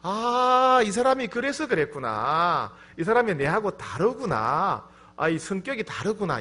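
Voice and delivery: mildly astonished, imitated; surprised realization. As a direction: act out a dawning realization. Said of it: "깜짝 놀라요".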